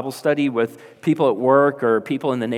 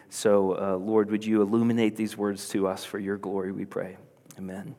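hushed closing prayer before the teaching; 2 semitones lower, 4 dB quieter than usual. Real, not acted. Leads an opening prayer.

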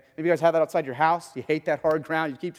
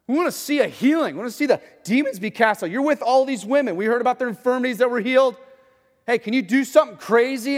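eager crowd; 8 semitones higher, 6 dB louder than usual. Retold or imitated. Crowd demanding miracles.

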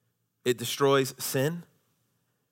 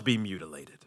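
quiet close; 7 semitones lower, 9 dB quieter than usual. Acted. Pastor ends the reading, hushed. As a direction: drop to a hushed finish. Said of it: "voice drops at passage end".

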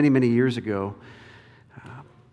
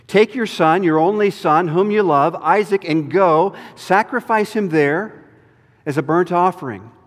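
raised, firm divine command; commanding voice of God; 3 semitones higher, 4 dB louder than usual. Acted. God commanding Abraham, firm and raised. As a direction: order Abraham to give up his son.

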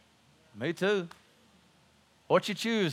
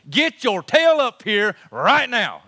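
slow, loud Southern drawl, Jesus calling you up; hammed-up Southern redneck call; Southern redneck slang; 4 dB louder, slower than usual. Jesus summoning the listener, in Southern redneck slang. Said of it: "in Southern redneck slang".

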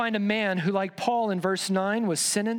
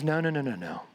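lower, steady no's as Paul; calm firm refusal; 5 semitones lower than usual. Acted. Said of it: "But Paul says".

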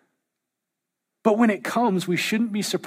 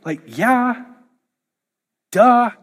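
lightly voiced Peter; 2 semitones higher than usual. Peter answering the complaining believer, a touch of teasing. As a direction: shrug it off like an older brother. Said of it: "Peter's like".

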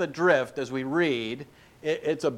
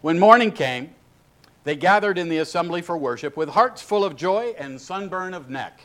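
lightly raised mock King James reading; mock biblical prophet; 3 semitones higher than usual. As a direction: read like a grand old scripture. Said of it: "that'd be a fun way".

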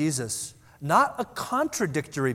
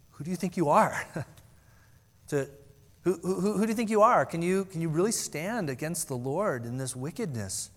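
mocking challenge; 3 semitones higher than usual. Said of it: "but in the sense of".

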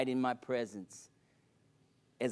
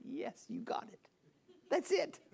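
bright eager reply; 13 semitones higher, 4 dB quieter than usual. Retold or imitated. Son answering his dying father.

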